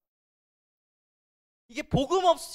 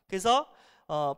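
ordinary talk

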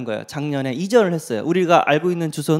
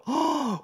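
mock gasp; 9 semitones higher, 9 dB quieter than usual. Juniors shocked at the bow.

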